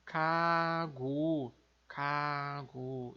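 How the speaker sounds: "kagu" com K no início e G no fim; coreano kagu. Shown as a demonstration. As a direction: diga "kagu" devagar, K surdo e G sonoro. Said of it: "então fica". (pronúncia coreana de "kagu", devagar)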